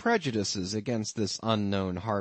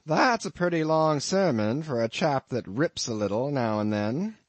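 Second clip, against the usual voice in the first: a lightly voiced innkeeper, higher and a bit louder; amused landlord; 3 semitones higher, 5 dB louder than usual. Innkeeper teasing his lodger about the harpooneer, lightly voiced. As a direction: spin the tale with a sly chuckle underneath.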